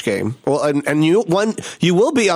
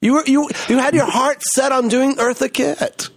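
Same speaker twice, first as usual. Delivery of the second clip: surprised; 8 semitones higher than usual. Retold or imitated. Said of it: "I was just like".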